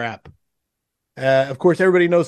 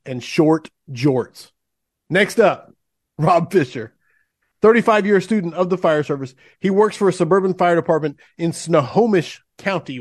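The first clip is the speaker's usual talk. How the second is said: punchy host introduction, key phrases stretched; show announcer. Acted. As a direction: announce the guests with deliberate emphasis.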